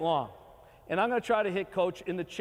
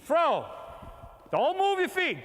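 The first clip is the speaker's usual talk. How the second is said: yelling from the sidelines; 7 semitones higher, slower than usual. Real, not acted. Coach calling out over field.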